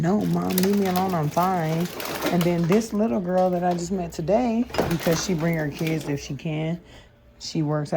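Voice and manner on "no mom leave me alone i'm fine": put-on snappy kid. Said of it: "they get snappy with her".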